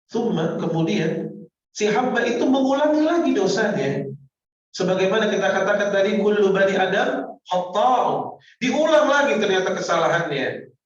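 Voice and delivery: loud, high preaching swell; preaching at full force. Acted. Preacher exhorting the congregation, loud and high. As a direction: drive the point home to the crowd.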